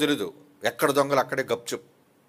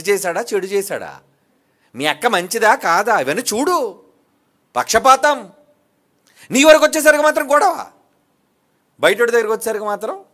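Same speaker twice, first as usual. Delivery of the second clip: preaching at full force; 7 semitones higher, 9 dB louder than usual. Acted. Preacher condemning bloodshed to his congregation, full-force preaching. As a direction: thunder it from the pulpit. Preacher rails against partiality.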